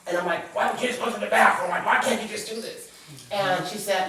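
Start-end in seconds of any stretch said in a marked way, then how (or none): 0.5-2.9 higher, fast, exasperated demand; retold angry outburst. Daughter pressing her sick mother, higher and exasperated. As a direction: snap at her in frustration. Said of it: "I'm so angry and I'm so enraged".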